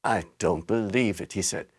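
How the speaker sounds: can't take it in; stunned father. A narrator's reading. Mister Bucket hears the news, low and hushed.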